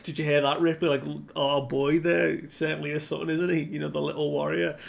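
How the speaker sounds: mock a proud dad showing off; proud bragging. Gabon boasting to Ripley about their boy, proud and excited. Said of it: "This is no time to brag".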